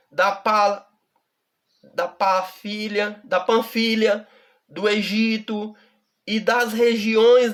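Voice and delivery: slow, measured Bible reading with long pauses; solemn slow reading of scripture. Acted. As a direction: read the verse aloud slowly and deliberately.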